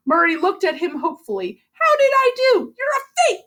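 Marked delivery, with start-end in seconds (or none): 1.7-2.7 high, eager hopeful ask; hopeful question. Acted. Murray hopeful after naming reindeer. 2.8-3.5 accusing cry. Acted. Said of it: "the boy cried".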